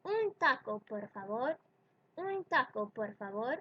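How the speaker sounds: un taco, por favor with unaspirated t; customer ordering. Shown as a demonstration. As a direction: politely order a taco, the Spanish way. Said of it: "let's try with a little dialogue".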